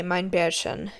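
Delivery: hushed and tender; soft whisper. Acted. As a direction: whisper it gently to a sleepy child. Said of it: "he whispered".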